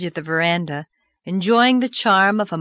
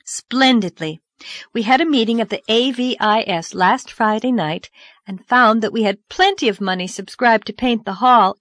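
put-on young girl voice; 4 semitones higher, 4 dB louder than usual. Narrator voices Anne.

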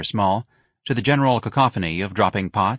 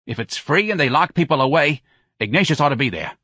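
brash, higher-pitched retort; exasperated Santa; 6 semitones higher, 4 dB louder than usual. Acted. Santa rebukes Claude over communist talk, exasperated. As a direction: take a foolish friend to task.

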